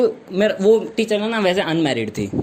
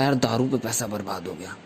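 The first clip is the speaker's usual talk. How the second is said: mock mournful lament; 9 semitones lower, 7 dB quieter than usual. Friend laments wasted money.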